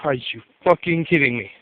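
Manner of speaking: low, slightly soft, fed-up disbelief; low, weary aside of disbelief; muttered disbelief. Retold or imitated. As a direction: grumble it to yourself, tired of the cheating. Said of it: "And I'm like".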